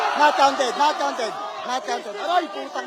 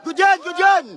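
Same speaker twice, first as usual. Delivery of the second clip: raised, urgent cheer; 4 semitones higher than usual. Real, not acted. Spectator to player Lester mid-game, cheering him on. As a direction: call out encouragement in higher, punchy bursts.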